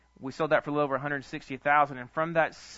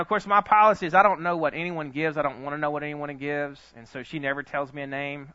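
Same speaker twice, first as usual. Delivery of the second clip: ordinary talk, nothing marked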